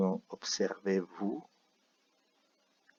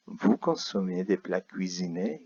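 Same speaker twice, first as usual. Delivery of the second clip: "Vous consommez des plats cuisinés" asked with a rising end; question tune. Shown as a demonstration. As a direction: rise on "cuisinés". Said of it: "la cambiamos mediante entonación a interrogación".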